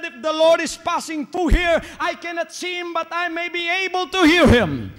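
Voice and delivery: lightly voiced pleading beggar; a hint of the blind man's hope; voicing the blind man. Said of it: "He said".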